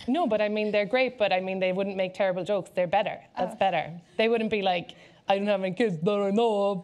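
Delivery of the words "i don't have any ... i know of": put-on dopey, doltish dumb voice. Acting out a terrible joke, in a put-on dumb voice. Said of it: "in like that dumb voice".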